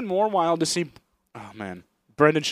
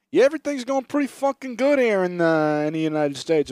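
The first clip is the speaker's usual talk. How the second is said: higher-pitched mobster-style presidential address; Italian president at press conference; 3 semitones higher, 4 dB louder than usual. Acted. President addresses the press live, brash mobster style. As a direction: play a brash wiseguy president. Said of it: "he's giving, like, a live press conference".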